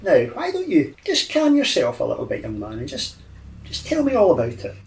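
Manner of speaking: put-on old man soothing with gliding pitch; calm him into confiding in you; hypnotic charm. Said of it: "attempt to hypnotise him".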